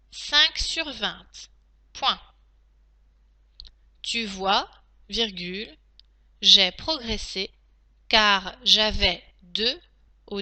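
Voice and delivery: steady reread of the dictation. Shown as a demonstration. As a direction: read it back for checking. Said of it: "je vais donc maintenant relire la dictée".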